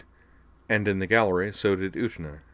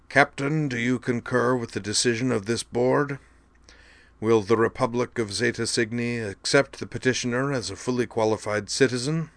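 stately, measured official pronouncement; formal judge voice; 4 semitones higher than usual. A narrator's reading. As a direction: read the ruling like a court official. Chairman questions the captain.

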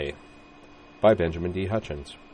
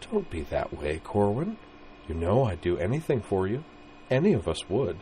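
lightly voiced young woman, soothing; soft coaxing girl; 5 dB quieter than usual. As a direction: win him over gently. Vigdis voiced by reader.

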